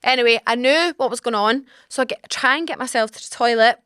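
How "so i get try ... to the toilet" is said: "try" stretched and stressed to show the struggle. Shown as a demonstration. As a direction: lean hard on "try" as if it barely worked. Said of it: "Emphasis on the word try".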